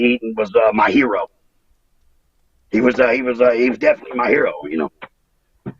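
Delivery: real emotion welling up as he talks about his hero; choked up. Real, not acted. Wrestler remembering his mentor, choked up with real emotion. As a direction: voice catching on the words, nearly breaking. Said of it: "get a little emotional here".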